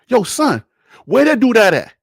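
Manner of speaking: put-on Brooklyn accent. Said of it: "Like my Brooklyn dudes would ask you".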